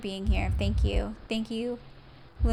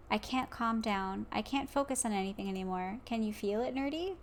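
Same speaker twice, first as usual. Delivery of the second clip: a hint of a flustered Yuri; lightly voiced Yuri; 5 dB quieter than usual. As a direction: read it like a nervous confession, hushed. Voicing Yuri's confession lines.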